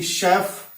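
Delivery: शेफ begun with a SH sound. Shown as a demonstration. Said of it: "फिर श हो गया".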